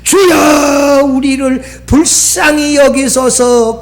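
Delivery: long, drawn-out call on the Lord; retold crying out. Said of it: "소리쳐서".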